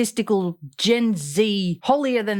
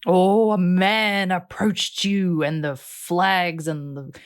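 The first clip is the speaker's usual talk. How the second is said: slow, lower mock-dramatic drawl; mocking retelling; 3 semitones lower, slower than usual. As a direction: draw it out with heavy sarcasm. Mocks her radar story, drawn out.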